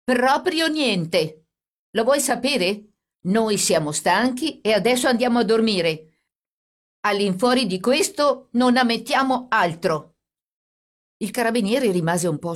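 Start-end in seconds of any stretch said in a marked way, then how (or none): 0.0-10.1 higher, louder, shaking with anger and fright; fear and anger. A narrator's reading. Brother defies the policeman, trembling with anger. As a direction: push back at him, voice trembling. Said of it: "tremante di paura e di collera".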